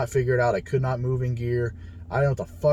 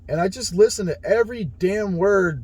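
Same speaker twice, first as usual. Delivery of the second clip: laughing; 5 semitones higher than usual. Real, not acted. Praising his coach, laughing.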